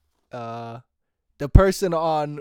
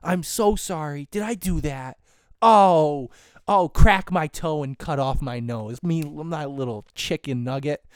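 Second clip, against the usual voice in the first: syrupy fake-sorry sarcasm; a touch of sweet sarcasm, louder at the start; sarcastic apology; 4 dB louder than usual. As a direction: overdo the apology to mock them. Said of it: "I will be very sarcastic".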